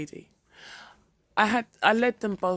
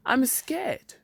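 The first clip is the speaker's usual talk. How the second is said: breathy frightened whisper; 8 semitones higher, 3 dB louder than usual. A narrator's reading. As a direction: whisper it, scared. Frightened patient confesses.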